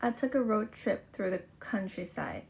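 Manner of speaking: careful read-aloud of a test passage. Shown as a demonstration. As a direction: read each sentence out steadily for the test. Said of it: "อ่านต่อนะคะ". (อ่านออกเสียงอย่างตั้งใจ)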